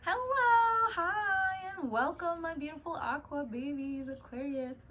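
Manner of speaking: high, bright sing-song hello; excited greeting. Real, not acted. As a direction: greet the viewers with big excitement. Bubbly intro greeting to viewers.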